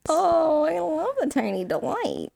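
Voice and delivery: slow, high, dreamy; high swoon. Pretend.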